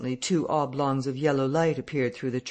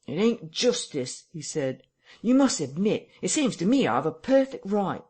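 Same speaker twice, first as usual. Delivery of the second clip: whining protest; 5 semitones higher, 3 dB louder than usual. A narrator's reading. Marvel protests.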